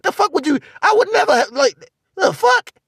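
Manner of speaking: can't believe what he's hearing; outraged disbelief. Real, not acted.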